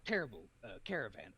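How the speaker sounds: a hint of earnest anime hero; earnest determined anime hero. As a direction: play it noble and sure. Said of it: "He's doing the anime protagonist voice".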